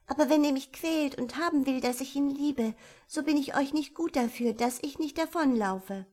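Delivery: high, fast and sulky; a cross little sister cutting in; sulky young girl. A narrator's reading. Young girl interrupting her sister, high and sulky. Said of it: "fiel ihr die Kleine verdrießlich ins Wort".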